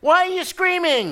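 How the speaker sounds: put-on child's voice. Child voiced in sermon story.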